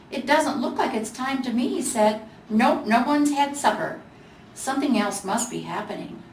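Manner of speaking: lightly voiced curious Gingerbread Boy. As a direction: ornament figuring things out.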